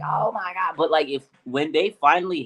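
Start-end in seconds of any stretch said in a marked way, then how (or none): 0.0-0.8 higher, awed gasp of delight; retold delighted exclamation; excited. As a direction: react as the pass goes up. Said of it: "I was like".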